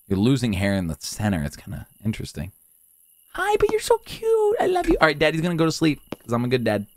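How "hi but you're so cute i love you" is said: cooing. Pretend. Cooing to game baby.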